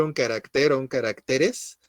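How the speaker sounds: "carácter" as ca-rac-TER, "caracteres" as ca-rac-TE-res; old-fashioned word stress. Shown as a demonstration. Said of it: "hace años así se decía". («carácter» acentuado al final, como se decía antes)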